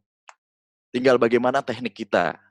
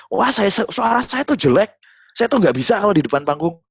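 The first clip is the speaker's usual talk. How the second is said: mock self-doubt; 11 semitones higher, 6 dB louder than usual. Trainee fretting about her voice to the speaker, high and whiny. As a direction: imitate a shy trainee fretting. Imitating a doubtful audience member.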